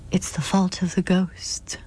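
whispered aside. Acted. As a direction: let it slip like a shared secret. Guardian's teasing answer with wink.

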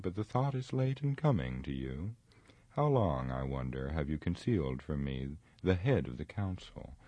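lightly voiced wizard, accusing and deliberate; Saruman, haughty wizard. Saruman accuses Gandalf of concealing a matter, haughty. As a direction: question him like an offended superior.

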